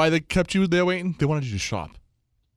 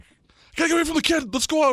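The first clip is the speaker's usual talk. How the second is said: high-pitched wife voice; 11 semitones higher, 3 dB louder, faster than usual. Retold or imitated. Quoting buddy's wife wanting out.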